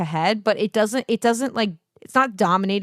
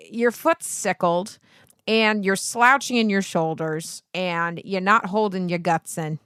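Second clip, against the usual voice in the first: ordinary delivery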